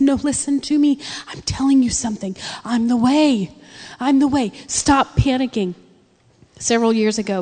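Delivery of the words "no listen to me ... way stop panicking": insistent, steadying someone who panics; firm reassurance. Acted. Jesus holding Thomas's face, firmly reassuring. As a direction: get them to listen and calm down. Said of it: "he grabs his face in his hands and he says".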